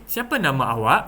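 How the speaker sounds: "awak" lifted at the end as a question; questioning intonation. Shown as a demonstration. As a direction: ask it, raising the tune on "awak". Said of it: "seolah-olah kita bertanyakan sesuatu".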